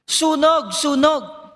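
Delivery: high, urgent cry for help; desperate fire cry. Retold or imitated. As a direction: call out fire as the house burns. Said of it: "Sumigaw siya". (desperadong sigaw na Sunog)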